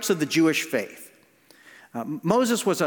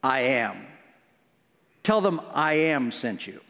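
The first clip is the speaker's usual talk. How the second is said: lower, slow and steady; God speaking; 7 semitones lower, slower than usual. Retold or imitated. God answering Moses from the bush, low and calm. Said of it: "And God says".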